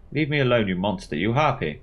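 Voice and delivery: angry yell. Acted. Clarissa yelling at Veronica.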